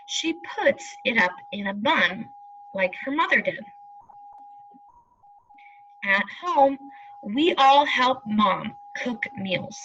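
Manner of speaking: unhurried storybook reading, every word clear; reading to children. Acted. Teacher reading the family story to pupils, slow and clear. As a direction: read it out like a picture book for the class.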